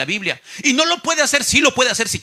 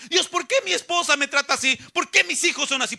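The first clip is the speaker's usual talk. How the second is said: mock complaint, pitched higher; complaining to God; 6 semitones higher than usual. Creyente que se queja contra Dios por su familia, complaining. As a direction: imitate someone griping upward at God. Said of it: "todavía te quejas contra Dios".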